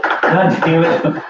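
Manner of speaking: guard yelling after a fleeing swimmer; angry guard yelling. Acted. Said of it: "yelling at you".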